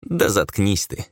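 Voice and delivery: slow, good-natured grumble; mild grumble. Acted. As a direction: tell him off without malice. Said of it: "беззлобно буркнул Ром".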